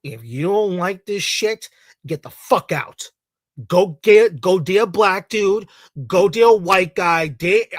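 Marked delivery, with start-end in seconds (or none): 3.7-7.7 loud, angry ranting commands; furious ranting shout. Real, not acted. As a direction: bark the orders at them. Ranting angrily at critics.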